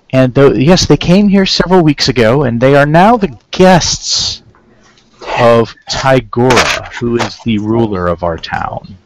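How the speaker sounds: put-on slow, deliberate, lightly Terran-accented councilman. Councilman to visitors about their missing friends, light Terran accent. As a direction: speak slowly with a slight invented Terran accent. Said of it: "he has a strong Terran accent".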